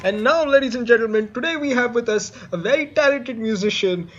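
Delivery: showman's build-up to the guest's name; guest introduction. Acted. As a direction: announce the star, punching the name. Host introduces the musical guest.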